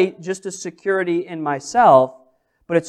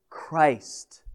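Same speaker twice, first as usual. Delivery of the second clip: hushed Christ; 5 semitones lower, 9 dB quieter than usual. Acted. Repeated climactic answer.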